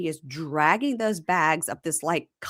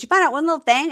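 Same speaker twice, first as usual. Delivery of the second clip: mock indignant girl; 10 semitones higher, 5 dB louder, faster than usual. Quoting her again.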